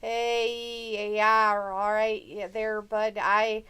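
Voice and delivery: hammed-up Canadian accent with drawn-out openers; mock Canadian accent. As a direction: put on a bad Canadian accent. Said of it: "I can't speak Canadian".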